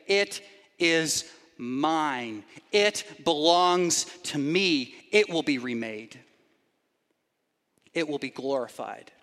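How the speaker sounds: slow, low, solemn proclamation; solemn voice of God. Pretend. Preacher voicing God claiming creation, slow, low and solemn. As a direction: pronounce each claim slowly like God laying claim to the world. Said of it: "He will say".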